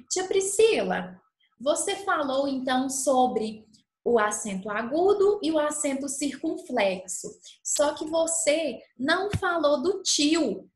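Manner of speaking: lightly voiced pupil asking about the tilde; child's question. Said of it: "por que será que a tia Priscila".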